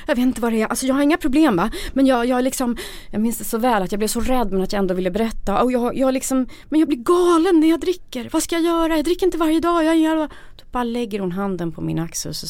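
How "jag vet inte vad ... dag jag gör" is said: high, loud, rushing confession; spilling out. Retold or imitated. Woman blurting out her drinking problem to an old friend, high and loud. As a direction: let the panic pour out at once. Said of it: "väller ut ur mig".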